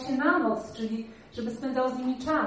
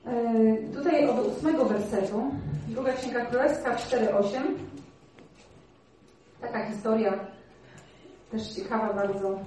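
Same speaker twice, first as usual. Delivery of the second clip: usual speaking voice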